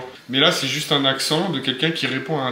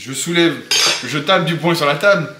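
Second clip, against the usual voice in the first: mock indignation; 3 semitones higher, 5 dB louder than usual. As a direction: play the indignant objector banging the table. Mock protest, thumping the table.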